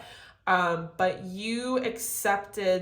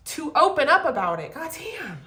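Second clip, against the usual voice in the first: frustrated outburst; 8 semitones higher, 6 dB louder than usual. Real, not acted. Frustrated about the person.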